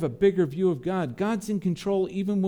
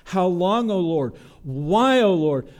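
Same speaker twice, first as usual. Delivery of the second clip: louder psalm lament; a psalmist's loud, pained cry; 5 dB louder than usual. Acted. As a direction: call out to the Lord in anguish. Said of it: "crying out with the psalmist".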